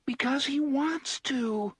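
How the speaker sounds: put-on high, slow, frightened child-like voice; horrified whisper. A narrator's reading. Little Blaine answering the travellers, horrified whisper. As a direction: breathe it out in horror. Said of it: "in his horrified whisper".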